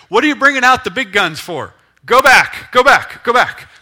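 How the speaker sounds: loud, high pleading to back off; panicked plant. Acted. Plant begging the pruner to go back, loud and panicked.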